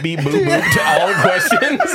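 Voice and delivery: high beeping robot chirps; toy robot voice. Retold or imitated. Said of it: "I was just gonna say beep".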